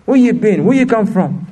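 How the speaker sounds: a hint of a mechanic berating an apprentice; mock yelling mechanic. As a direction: imitate a boss mildly yelling at a new guy. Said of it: "He ain't gonna yell at him".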